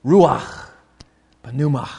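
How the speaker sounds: "Ruach, pneuma" as two separate, deliberate words; sounding like meaning. Shown as a demonstration. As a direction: let "Ruach" and "pneuma" sound like breath and wind. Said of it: "they read like they sound".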